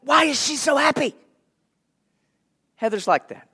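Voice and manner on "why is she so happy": higher, a bit softer, puzzled grumble; mock annoyance. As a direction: voice the irked onlooker lightly. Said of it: "It, it's like".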